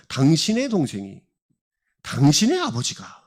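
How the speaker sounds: 당신의 punched out with a pitch peak; stress on 당신의. Retold or imitated. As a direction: lean on 당신의 to make it the listener's own. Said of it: "큰아들 입장에서 설명을 하고 있어요".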